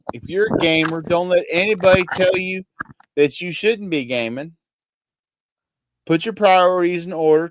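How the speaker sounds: hammed-up rural Kentucky accent; exaggerated country accent. Shown as a demonstration. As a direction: give folksy advice in a country accent. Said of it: "the accent that I'm using right now".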